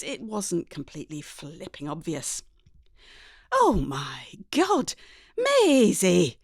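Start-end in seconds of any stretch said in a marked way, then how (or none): 3.5-6.4 slow, drawn-out dismayed cry; a hint of a horrified mother; lightly voiced shocked mum. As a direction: mum aghast at the haircut. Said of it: "says Mum from where she slumped".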